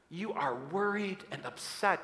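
soft, gentle reading; softly caring; loving. Acted. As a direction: tell them tenderly, without blame. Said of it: "in such a loving, loving way".

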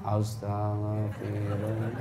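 wife pretending to weep while saying istighfar; mock tearful istighfar. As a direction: pretend to cry through the prayer. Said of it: "Sambil pura-pura menangis".

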